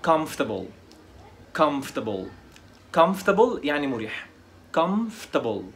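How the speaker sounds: comfortable said "KUMF-tuh-bul"; three syllables in "comfortable", skipping "or"; silent o-r. Shown as a demonstration. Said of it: "ال او ار مش هيتنطقوا". (comfortable تتنطق "كَمفتبل")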